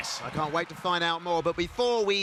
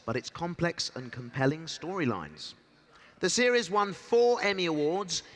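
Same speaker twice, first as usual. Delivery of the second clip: promo narration. Acted. Host reads promo narration.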